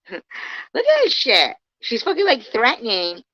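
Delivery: loud, high outburst of disbelief; furious disbelief at a message; outraged. Real, not acted. Outraged reading of a threatening message.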